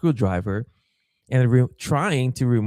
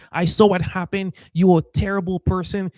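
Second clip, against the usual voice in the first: retold scolding; 7 semitones higher than usual. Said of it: "she didn't give me a chance".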